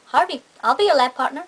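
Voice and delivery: put-on a light, half-hearted try at an American teen accent; mild American accent attempt; the speaker's American accent. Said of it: "I should stop trying to do accents".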